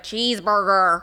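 Australians' imitation of an American accent; mock American accent. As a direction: playfully exaggerate an American accent. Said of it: "They do it back".

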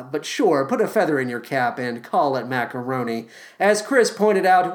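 usual speaking voice

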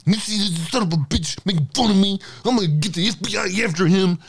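a hint of a petty grumbler; mock Mike Rothschild. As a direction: sneer like a tattletale threatening the FBI. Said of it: "and he's like".

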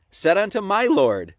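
slow, loud reading with "my Lord" marked out; stress on capitals. Shown as a demonstration. Showing listeners the capitalization, slow emphatic "my Lord". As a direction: spell out "my Lord" slowly and firmly. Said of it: "look at the capitalization".

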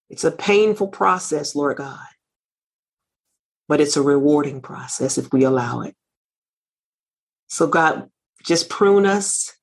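earnest spoken prayer to God, unhurried. Acted. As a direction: pray it aloud with devotion. Opening prayer.

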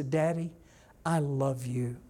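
gently sincere, unhurried; a child's tender declaration, lightly voiced; heartfelt. Shown as a demonstration. Child telling daddy once, looking in his eyes, heartfelt. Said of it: "look in your eyes and say".

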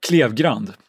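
Klevgrand said the Swedish way; Swedish pronunciation. Shown as a demonstration. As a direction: Swedish Klevgrand, carefully sounded. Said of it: "should I do the Swedish?".

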